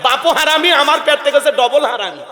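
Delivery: high, furious scolding of the husband; angry mother. Retold or imitated. Angry wife tells husband to handle the child. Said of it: "রাগান্বিত হয়ে বলে".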